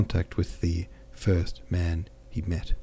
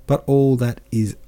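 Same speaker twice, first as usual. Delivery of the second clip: growing animated; 3 semitones higher, 4 dB louder than usual. Acted. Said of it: "growing animated".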